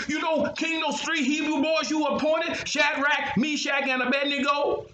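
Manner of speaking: snitching to the king, keen and shrill-free; tattling officials. A narrator's reading.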